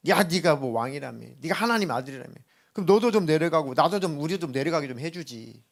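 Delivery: a hint of a jeering thief; lightly voiced scorn, taunting; mildly mocking the crucified king. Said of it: "막 끝까지 조롱했죠".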